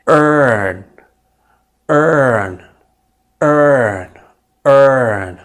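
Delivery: earn with a long er vowel. Shown as a demonstration. Teacher drilling earn for students. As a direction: say earn as urn, er held. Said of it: "إذن".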